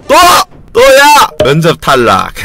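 exasperated cry. Real, not acted. Gamer rejected again by a company, frustrated yelp. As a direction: blurt it out at yet another rejection.

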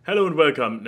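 a hint of announcer intro; show opening greeting. Quoting the podcast intro again, lightly announcer-like. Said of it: "This is".

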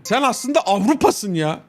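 high, gushing mock praise; mock flattery. Admirer hailing Europe's shining star among Turks, gushing. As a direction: flatter extravagantly with the pitch pushed up.

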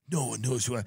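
lightly voiced sulky mumble; a hint of a moping whiner; mock self-pity. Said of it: "Instead of going".

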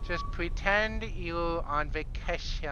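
high, slow, hammed-up mock Asian accent; crappy Asian accent. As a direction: put on a bad Asian accent, high-pitched and drawn out. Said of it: "went Asian crappy accent with that".

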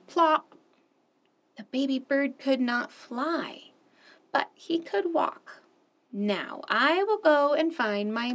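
animated picture-book read-aloud; expressive children's story narration. Acted. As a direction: read it like story time for little ones.

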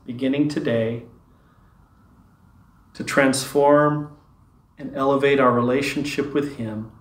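unhurried meditation lead-in with long pauses; guided meditation. Real, not acted. Leader settling listeners into God's presence, guided meditation. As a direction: ease them into stillness, phrase by phrase.

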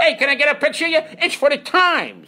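loud, high wise-guy holler; Leo Gorcey. Acted. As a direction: belt it out broadly, stretching the last word. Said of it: "I did it like Leo Gorcey".

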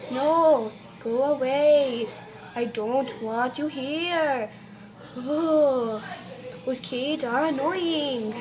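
slow, drawn-out mock annoyance; annoyed teacher. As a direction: whine it slowly as a fed-up pretend teacher. Teacher sending pupils away.

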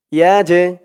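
ইয়া জে with a slight bouncing release on the j; qalqalah bounce. Shown as a demonstration. Teacher shows the echoing letter jim, ইয়া জে with a bounced j. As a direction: give the j in ইয়া জে a small push. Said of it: "একটু ধাক্কা খাবে".

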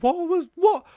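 high, slow what-was-that; stunned, incredulous question; baffled disbelief. Real, not acted. Baffled reaction.

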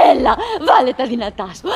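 encouraging through a laugh. Acted. Wife laughing as she urges her husband on. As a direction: cheer him on, laughing.

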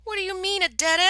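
rising alarmed disbelief; voice jumping up. A narrator's reading. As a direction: pitch climbing high in alarm. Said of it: "Asakawa's voice had ridden several notes".

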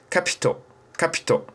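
"Kapito" with a soft, lightly breathed Pi; quiet Japanese-style "Kapito"; Japanese pronunciation. Shown as a demonstration. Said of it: "die sprechen das Pi ein bisschen anders aus".

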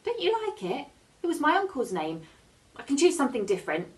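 put-on a little girl bluffing bravely; girl threatening the shark with her mum; young girl. A narrator's reading. Reader voices the girl.

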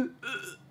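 retching sob. Retold or imitated. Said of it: "Crying to the point of".

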